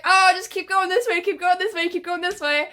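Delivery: lightly voiced helpful staff; mock security guard. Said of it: "they were like".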